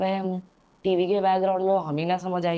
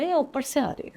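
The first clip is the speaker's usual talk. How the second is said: higher, startled realization; alarmed brother; 7 semitones higher than usual. Retold or imitated. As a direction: suddenly catch the sound from upstairs. Brother suddenly hears the noise.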